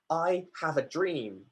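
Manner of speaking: slow, grounded delivery of I have a dream; slow and deep. Shown as a demonstration. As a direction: say it slowly, deep from the gut. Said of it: "He said it slowly".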